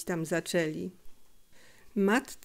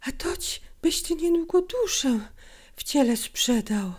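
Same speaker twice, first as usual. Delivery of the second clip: mother scolding; 8 semitones higher than usual. Acted.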